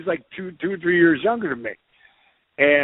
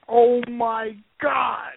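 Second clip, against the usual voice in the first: imitating buddy's amazement; 9 semitones higher than usual. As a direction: play the starstruck friend who can't believe it. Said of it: "And Ross goes".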